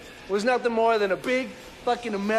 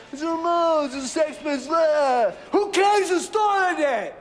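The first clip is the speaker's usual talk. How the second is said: high, loud mocking outburst; fed-up, high-pitched shout; exasperated shouting; 8 semitones higher, 4 dB louder than usual. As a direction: yell the debate away in exasperation. Exasperated rant mocking the debate.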